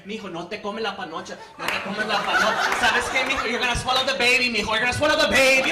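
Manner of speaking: old grandma's warning builds to a mock shout; hammed-up grandma scolding in Spanish. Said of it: "My nana's sex advice is like this".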